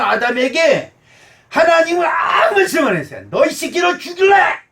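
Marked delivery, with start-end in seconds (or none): 3.3-4.6 higher, louder threatening shout; God pictured threatening Adam in a rage, shouting; mock furious God. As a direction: bark it like an enraged father. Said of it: "이러지 않는다는".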